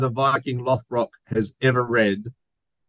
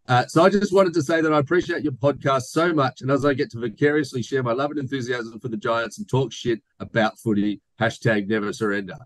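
put-on reading a fan's letter in a light New Zealand accent; a Kiwi lilt put on for laughs, only lightly done. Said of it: "I'm gonna do it in my New Zealand accent".

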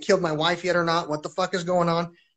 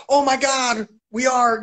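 higher-pitched mock astonishment; imitated family exclamation; 5 semitones higher, 4 dB louder, slower than usual. Family hearing from missing girl, imitated excited exclamation. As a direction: exclaim it high, as a retold reaction. Family's reaction on the phone retold.

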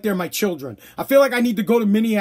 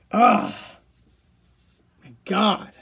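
weary groan; 4 semitones lower, much slower than usual. Real, not acted. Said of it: "I'm dying over here".

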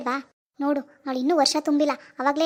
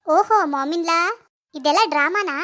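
caught you; 2 semitones higher, 4 dB louder, slower than usual. Acted. Catches mother-in-law's scheme.

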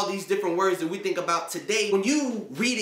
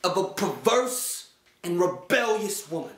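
formal scripture insult. Retold or imitated. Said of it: "He say".

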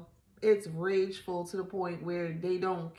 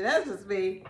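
ordinary talk

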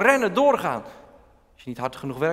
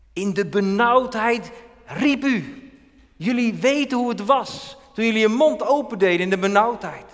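louder, higher proclaiming voice of the Lord; voice of God; 8 semitones higher, 6 dB louder than usual. Acted. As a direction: speak as God, declaring his deeds with authority. Voices God speaking to people.

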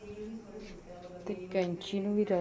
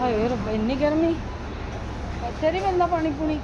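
dramatic loud aunty; 6 semitones higher, 10 dB louder, faster than usual. Real, not acted. Arriving hot, complaining loudly.

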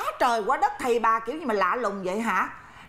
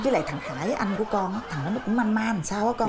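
laughing while talking; 5 semitones lower than usual. Acted. Mother chuckling over sons' mess.

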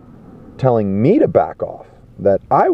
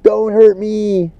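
high, slow mock-frightened whimper; mock scared; 3 dB louder, much slower than usual. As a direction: imitate cowards begging, hammed-up. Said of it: "scared like little girls".

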